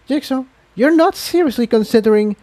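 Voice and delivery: high, incredulous mare voice. Acted. Incendia to Jigsaw, shocked by his idea, incredulous. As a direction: cannot believe what he plans.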